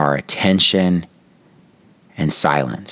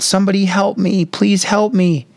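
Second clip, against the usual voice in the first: pleading for help. Retold or imitated. Homeless man calls out to passersby, pleading desperately. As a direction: wail it high, stretching the final plea. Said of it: "he was crying and pleading for help".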